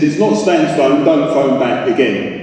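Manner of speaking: understated irritation, slowing on the last words; irritated, drawing out the ending. Acted. Man telling a prank caller it's a wrong number, irritated. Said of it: "That's irritated".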